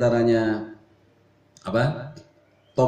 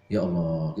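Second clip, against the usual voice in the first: imitating Habib Umar; 9 semitones lower, much slower than usual. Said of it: "gitu, dikit-dikit nyebut nama Allah".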